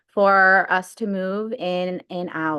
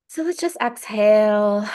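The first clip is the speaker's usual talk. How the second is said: guided breathing cue; 4 dB louder than usual. Real, not acted. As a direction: stretch it out to lead the exhale. Leads the group into breathing.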